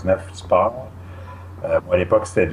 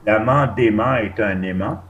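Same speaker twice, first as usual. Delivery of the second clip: slow, deliberate. Shown as a demonstration. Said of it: "wordplay said slowly".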